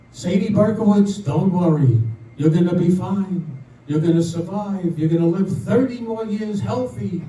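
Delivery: a loud, sure pronouncement easing off; God's reassurance. Acted. God comes to a woman in a dream, reassuring. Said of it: "God comes to her and says".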